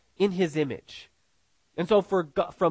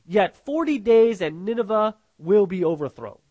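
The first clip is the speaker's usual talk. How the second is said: imitated crying out; 4 dB louder than usual. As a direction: lightly imitate a prophet crying out, drawing out the opening. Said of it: "and he's crying out".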